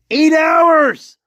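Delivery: exasperated cry; angry shout. Real, not acted. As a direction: bark the number out in disbelief. Repeating the point, now shouting.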